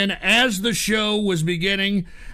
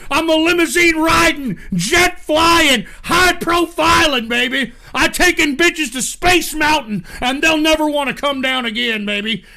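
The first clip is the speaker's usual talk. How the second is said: a hint of a wrestler's promo, higher; Ric Flair promo; 4 semitones higher than usual. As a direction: strut through it like a wrestling promo. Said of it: "We're doing Ric Flair style".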